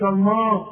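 "الماء" darkened into "almo"; wrong heavy vowel. Shown as a demonstration. Teacher showing what not to say, wrong heavy vowel. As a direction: thicken the m and a of "الماء". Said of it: "ما تقولش".

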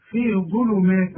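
في ظلمات recited slowly, every letter given; correct recitation. Shown as a demonstration. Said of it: "ما تقولش مات بقى في ظلمات". (تلاوة في ظلمات ببطء)

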